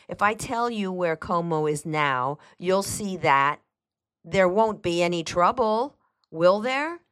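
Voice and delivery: lightly voiced housekeeper, rising at the end; hesitant, seeking reassurance; cautious woman on the phone; wary housekeeper.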